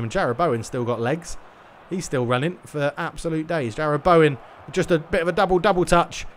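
lively football play-by-play call; match commentary. Acted. Streamer commentating his own eFootball match, lively play-by-play. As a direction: commentate the game live as it unfolds.

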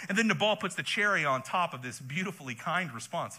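dry mock praise; sarcastic. Real, not acted. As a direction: say kind while meaning cruel. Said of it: "he said sarcastically".

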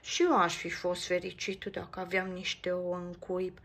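a wistful sigh in the voice. Acted. Max sighs to Nico wishing for eggs, wistful. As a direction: sigh about what's missing. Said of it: "oftează Max".

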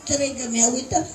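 voz desfallecida, cada vez más baja; a punto de desmayarse. Acted. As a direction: pide agua fingiendo que se desmaya. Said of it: "me quiero desmayar". (desmayo fingido, casi sin voz)

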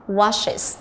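"washes" with the ending said as a separate "is" syllable. Shown as a demonstration. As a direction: model "washes" as wash-is. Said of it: "nó là âm is".

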